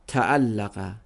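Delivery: تعلقه read as ta'allaqa with a long doubled l; vowelled reading. Shown as a demonstration. Teacher asking how students vowel the verb, careful.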